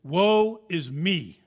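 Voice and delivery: drawn-out, loud cry of woe; Isaiah's lament. Acted. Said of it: "this is Isaiah talking".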